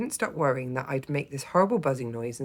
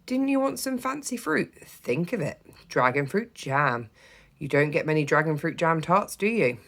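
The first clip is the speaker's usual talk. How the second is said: put-on persuasive child; 3 semitones higher than usual. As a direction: sell the idea eagerly.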